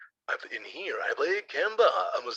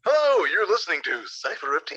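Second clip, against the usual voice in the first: hype man ad; 2 semitones higher, 4 dB louder than usual. Acted. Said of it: "be my hype man".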